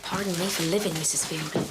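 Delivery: low-pitched mock apology; sarcastic grumbling. Assistant begs Missus Fielding's pardon, sarcastic. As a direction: grumble a servile apology to the boss.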